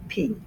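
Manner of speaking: "P" with a forceful pop from closed lips; high-pitched, forceful "P". Shown as a demonstration. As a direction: press the lips together and pop "P". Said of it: "It's more forceful".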